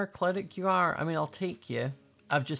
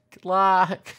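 louder laughing good luck; 3 semitones higher, 10 dB louder than usual. Real, not acted. Gamer leaving the baby polar bear, laughing. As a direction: laugh it off, a bit guilty.

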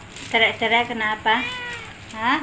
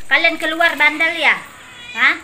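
scolding; 3 semitones higher, 5 dB louder than usual. Real, not acted. Scolding cats who went outside.

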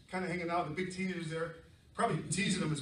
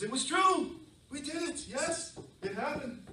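high, loud burst of conviction; excited insistence; 10 semitones higher, 4 dB louder, slower than usual. Real, not acted. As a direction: proclaim it like a joyful truth. Insisting the stories are true.

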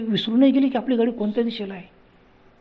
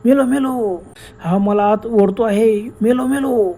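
mild mock scream; 3 semitones higher, slower than usual. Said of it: "Abhijit किंचाळायला लागला".

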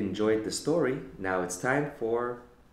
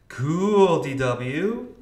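impressed; 6 semitones higher, 8 dB louder, much slower than usual. A narrator's reading. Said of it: "Binky remarked".

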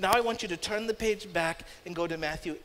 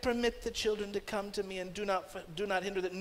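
put-on soft and gentle Permit the children, calm and mild; simple quiet; 2 semitones lower, 8 dB quieter than usual. Shown as a demonstration. Jesus gently speaking to disciples, quiet and mild. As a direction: say it like a kind reminder.

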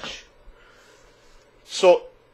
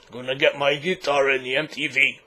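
Rock guitarist voice. Acted. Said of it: "very best rock guitarist impersonation".

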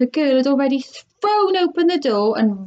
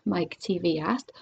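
lively storybook read-aloud; animated picture-book narration; reading to children. Acted. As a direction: read it like story time for kids. Reads a chapter aloud to children.

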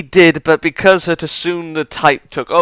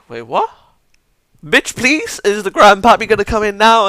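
high, louder disbelieving yelp; higher and louder mock outrage at the twist; incredulous outburst; 8 semitones higher, 4 dB louder than usual. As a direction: react like you can't believe it. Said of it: "I was just like".

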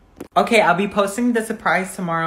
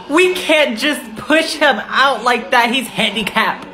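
appalled objection; 4 semitones higher than usual. Acted. Objecting to pushing a passenger off the bus, appalled protest. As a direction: stretch it out in mock outrage.

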